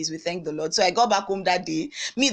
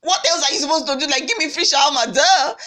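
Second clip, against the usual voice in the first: mock-sassy retort; 7 semitones higher, 5 dB louder than usual. Sarcastic imagined retort.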